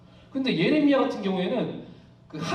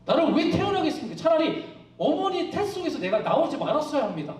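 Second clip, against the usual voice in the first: higher-pitched retold complaint; resentful challenge; 4 semitones higher than usual. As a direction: argue with God as Job. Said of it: "막 따집니다". (하나님께 따지듯 높은 목소리로)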